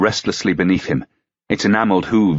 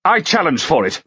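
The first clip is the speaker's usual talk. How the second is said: higher, quick, forceful; eager challenge; exclaimed; 9 semitones higher than usual. A narrator's reading. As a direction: jump in at once. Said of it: "Lancaster exclaimed instantly".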